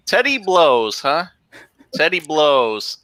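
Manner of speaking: mock-stunned, drawn out slowly; stunned teacher. History teacher reading the board aloud, stunned and slow. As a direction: read it back in disbelief, slow. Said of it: "he's going".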